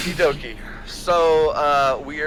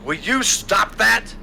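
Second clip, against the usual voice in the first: repeated raven voice; 6 semitones higher, slower than usual. Acted. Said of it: "Oh, the voice?".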